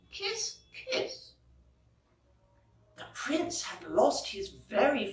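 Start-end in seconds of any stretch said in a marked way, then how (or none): 0.1-1.3 soft unvoiced kiss kiss; whispered kisses. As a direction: breathe it out as a whisper. Letter signoff, whispered.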